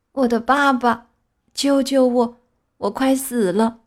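broken, halting plea for help; dying words. A narrator's reading. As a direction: gasp out the words between breaths. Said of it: "断断续续地说".

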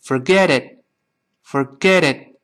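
slow "Forget it", middle t softened to d; linked, voiced t. Shown as a demonstration. Teacher demonstrates linking, "Forget it" said for-geh-dit. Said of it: "放在一块儿就连起来了".

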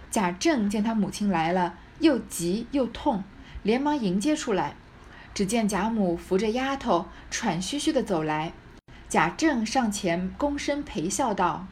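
measured, expressive storytelling read; deliberate literary narration; story narration. A narrator's reading. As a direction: read it out like a classic novel. Reads the novel aloud.

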